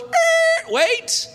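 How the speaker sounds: sudden high halt, wait; a light voiced interruption; Holy Spirit interrupting. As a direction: cut in sharply, then settle. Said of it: "the Holy Spirit goes".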